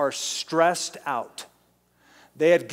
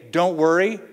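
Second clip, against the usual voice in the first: incredulous; 2 semitones higher, 4 dB louder than usual. Retold or imitated. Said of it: "then you say".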